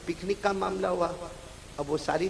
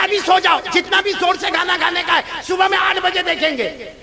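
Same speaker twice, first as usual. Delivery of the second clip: teacher's reply; 10 semitones higher, 5 dB louder than usual. Retold or imitated. Teacher telling child to sleep.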